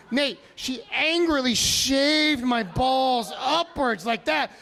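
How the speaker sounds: mock outrage. Real, not acted. Outraged retelling to Nate.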